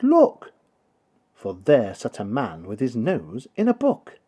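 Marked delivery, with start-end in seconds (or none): 0.0-0.5 put-on high, loud child's shout; excited cry. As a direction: shout it out as the boy spots the thief. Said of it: "and Peter cried".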